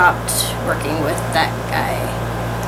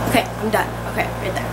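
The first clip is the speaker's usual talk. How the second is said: sore throat voice; 5 dB quieter, much faster than usual. Real, not acted. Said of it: "My throat hurts".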